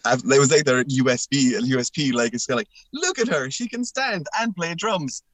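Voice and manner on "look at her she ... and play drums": mocking hype. Mocks the band's promotion.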